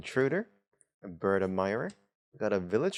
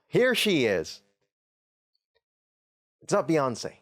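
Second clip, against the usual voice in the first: excited gasp; 6 semitones higher, 5 dB louder, slower than usual. Real, not acted. Gasps at finding the card.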